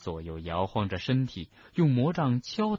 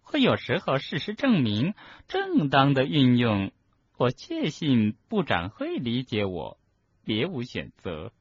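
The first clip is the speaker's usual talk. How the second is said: self-justifying professor; 4 semitones higher than usual. Acted. Umbridge justifies herself.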